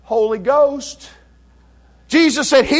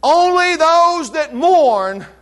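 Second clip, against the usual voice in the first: very slow, higher and louder, "those" hit hard; emphatic; 5 semitones higher, 4 dB louder, much slower than usual. Shown as a demonstration. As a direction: drag out "Only those that mourn" with a loud stress on "those". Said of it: "It's emphatic".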